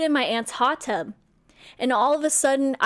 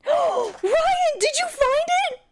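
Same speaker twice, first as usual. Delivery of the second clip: gasping, very high-pitched squeal; real high-pitched excited shriek; slower than usual. Real, not acted. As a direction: squeal it in high, breathless disbelief. Excited reaction to finding photo.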